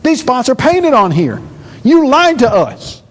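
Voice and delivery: a touch of hammed-up accusation; indignant listener. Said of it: "you say".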